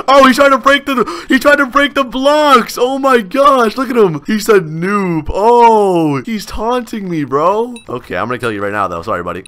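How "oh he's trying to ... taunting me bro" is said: laughing while talking. Real, not acted. Laughing at taunting opponent.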